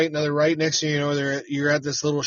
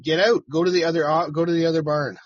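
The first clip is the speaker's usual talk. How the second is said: raised but controlled order; telling the workers firmly to get out of the barn office, raised but not yelling; 2 semitones higher, 4 dB louder, faster than usual. Retold or imitated. Firm and raised, short of a yell. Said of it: "not yelling, but not quiet".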